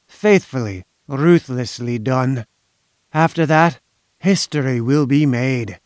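lightly voiced ominous inventor, deliberate delivery; sinister foreign schemer. Inventor promising ruthless delivery to his buyers, mildly sinister. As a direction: savour the boast, a touch menacing.

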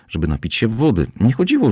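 usual speaking voice

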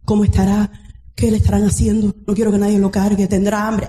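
low, quick anxious questions; lightly acted mother fretting over her baby; worried mother. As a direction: fret in a low, hurried voice. Acting out an anxious separated mother.

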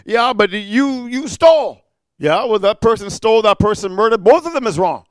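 rising sermon voice, pressing the point; preaching at full force. Acted. Preacher pressing the congregation about sin, preaching hard.

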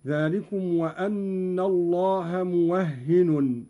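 موهن as muwahhinun, doubled ه and final n; Qalun's reading. Shown as a demonstration. Teacher demonstrates Qalun for students, موهن pronounced muwahhinun. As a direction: slowly recite موهن with open و and tanween. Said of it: "بفتح الواو وتشديد الهاء وتنوين النون".

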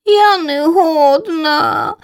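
high, slow crying chick; tearful slow whimper. A narrator's reading. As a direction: sob it out like a frightened little bird. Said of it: "з плачем на дзьобачику".

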